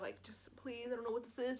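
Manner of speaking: mom's whispered plea; whispered prayer. Retold or imitated. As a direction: hush it like a quiet prayer. Mom praying over her chest.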